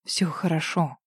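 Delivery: тихо, ниже голосом; повтори так же ласково; утешая. A narrator's reading. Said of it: "повторил он". (тихое утешение)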